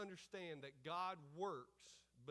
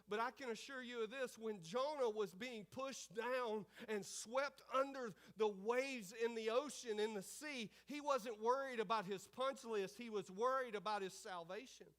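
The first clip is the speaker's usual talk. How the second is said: loud, higher-pitched sermon delivery; full-force preaching; 5 semitones higher, 7 dB louder than usual. Real, not acted. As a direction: drive the point home to the congregation.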